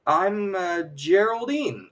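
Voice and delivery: stall, then offer the name like a guess; improvised fib. Retold or imitated. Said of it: "she comes up with it just like that".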